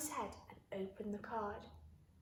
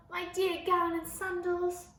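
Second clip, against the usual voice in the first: louder, higher delighted cry; happy exclaim; 5 semitones higher, 6 dB louder than usual. A narrator's reading. George greeting his gown and sandals, delighted. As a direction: gush over the lost clothes. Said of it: "he yelled".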